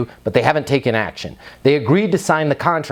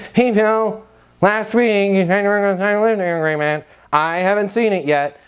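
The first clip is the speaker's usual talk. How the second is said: pushy reproach; 6 semitones higher than usual. Shown as a demonstration. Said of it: "Knock all of that off".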